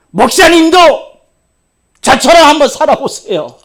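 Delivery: mock sulky youth, high and loud; imitating a bitter student; defiant student. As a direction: throw it back like a resentful teen. Student's defiant retort quoted.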